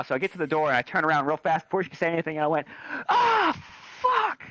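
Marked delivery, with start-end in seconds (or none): 3.1-4.4 high, drawn-out mock cry of dismay; squealed imitation of a curse; mocking outburst. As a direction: mimic the classmate in a piercing high voice. Mimicking the girl's outburst.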